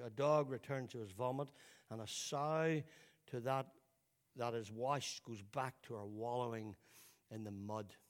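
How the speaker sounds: measured, deliberate scripture reading; slow reading. Real, not acted. Preacher reading Second Peter to the congregation, slowly. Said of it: "let me read it to you slowly".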